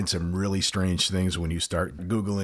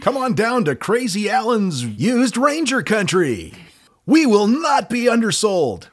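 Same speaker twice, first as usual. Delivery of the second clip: loud, high car salesman pitch; hard sell ad; 14 semitones higher, 6 dB louder than usual. Acted. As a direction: sell it like a cheesy TV ad. Used car lot pitch.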